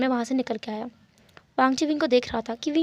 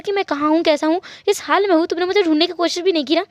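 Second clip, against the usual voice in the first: higher, insistent rant of grievances; angry scolding; 4 semitones higher than usual. Acted. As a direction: let him have it, wounded and indignant. Grabs his collar, scolds him.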